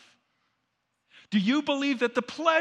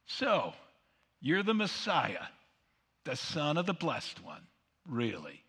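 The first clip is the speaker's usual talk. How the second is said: sarcastic; 2 semitones lower than usual. Acted. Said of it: "a sarcastic, snarky statement".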